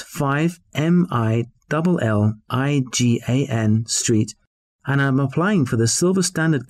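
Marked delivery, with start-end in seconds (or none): 0.0-4.3 slow spelling. Acted. Spelling a street name.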